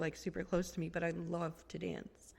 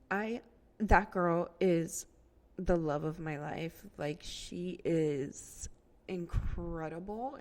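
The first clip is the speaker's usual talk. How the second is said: near tears; slower than usual. Real, not acted. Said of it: "I feel like I'm gonna cry again".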